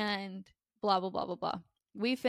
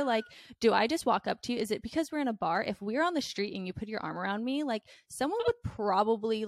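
indignant telling-off; 4 dB louder than usual. Retold or imitated. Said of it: "I'm just very blunt".

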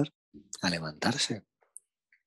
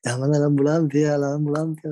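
higher, louder call for an ambulance; mock urgent shout; 6 semitones higher, 5 dB louder than usual. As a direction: yell for help like the panicked girl. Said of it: "La piba". (imitando a la chica gritando que llamen a la ambulancia)

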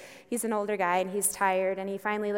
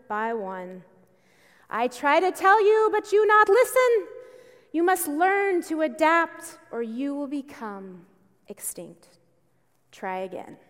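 stern coach; slower than usual. Retold or imitated. Coach Chozen scolds the beaten students, stern and broken English.

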